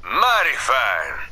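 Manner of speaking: cowboy drawl. Acted. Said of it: "stop talking like a cowboy".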